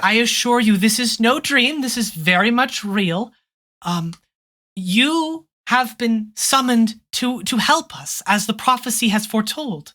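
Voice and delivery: gentle princess. Acted. GM voices the princess.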